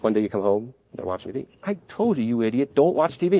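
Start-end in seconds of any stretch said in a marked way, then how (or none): 1.6-3.4 parent yelling. Retold or imitated. Parent catching the kid at the TV, imitated angry yell. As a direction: scold the kid caught watching TV. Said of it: "You yell".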